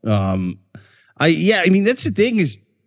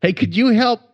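stiff lips, can't move face; numb from Botox; 3 semitones higher than usual. Pretend. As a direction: talk with frozen face muscles. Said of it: "next commercial break".

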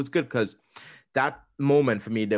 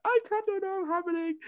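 retold crying, squeaked out much higher; mock tearful wail. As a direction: imitate overwhelmed tears in a thin high voice. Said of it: "And I cried".

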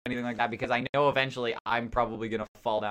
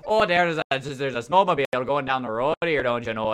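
put-on a playful Newfoundland accent, a bit louder; 5 dB louder than usual. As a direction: say it the Newfoundland way, don't you know. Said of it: "in my Newfoundland accent".

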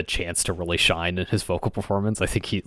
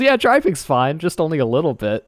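mock doctor voice; 8 semitones higher, 6 dB louder than usual. Voicing the doctor's reply.

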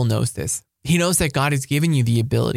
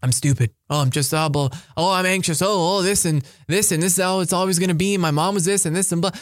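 mock whiny self-pity; 3 semitones higher, faster than usual. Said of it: "owning things like".

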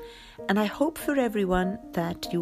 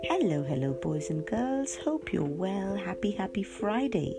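put-on overbright kids party host. Greets children as story host.

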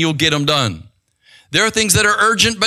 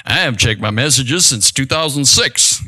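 imitated congregant; 4 semitones lower, 3 dB louder than usual. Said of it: "some of you are like".

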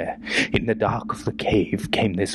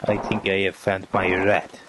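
grave German officer voice; brief the men in German accent; 7 semitones higher than usual. Acted. German officer sketch dialogue.

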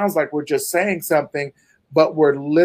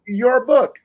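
slow, higher-pitched, deliberate finish; 7 semitones higher, slower than usual. Shown as a demonstration. Host finishes recounting her feat for listeners, slowed down. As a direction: spell out the feat slowly, pitched up. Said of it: "slow it down for the people listening".

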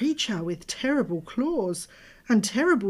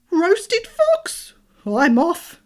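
startled fox shriek; 11 semitones higher, 11 dB louder, much slower than usual. Acted. Fox flees in fright.

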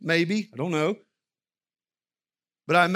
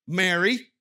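pleading, higher, exasperated Martha; 7 semitones higher than usual. Retold or imitated. Preacher voicing Martha's frustrated plea to Jesus. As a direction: sigh it out as the overworked sister. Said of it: "Martha would say".

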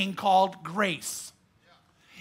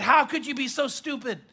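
scolding father, pitch raised; angry dad; 3 semitones higher than usual. Shown as a demonstration. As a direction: bark it like a furious dad. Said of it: "did you notice the difference?".

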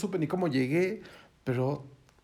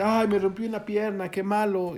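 higher-pitched acted-out wail of dismay; hammed-up complaint, pitched up; mock lament; 5 semitones higher, 4 dB louder than usual.

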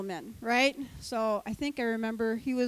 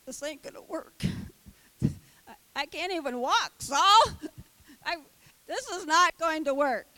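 laughing complaint; 3 semitones higher, 3 dB louder than usual. Retold or imitated. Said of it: "trying to walk around with them".

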